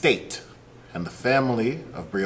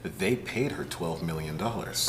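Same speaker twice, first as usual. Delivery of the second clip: mock earnest, laughing through it; sarcastic; 5 semitones lower, 7 dB quieter than usual. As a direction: play the smug official, half laughing. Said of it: "yeah, the sarcasm".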